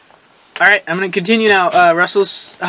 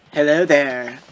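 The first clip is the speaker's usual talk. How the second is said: femme fatale; 4 semitones lower, 4 dB quieter, much slower than usual. Acted. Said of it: "She cooed seductively".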